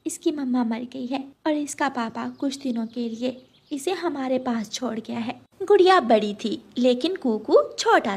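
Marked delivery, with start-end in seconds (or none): 0.1-5.4 softer motherly explaining; lightly voiced, soft-spoken mum; gentle mother bird. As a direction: explain it quietly to your daughter.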